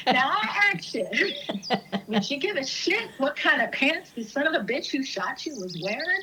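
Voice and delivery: hammed-up movie monologue, tickled; Marisa Tomei. Retelling the deer hunting scene, mock-indignant monologue. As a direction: act out an indignant movie rant, lightly. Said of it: "And she's like".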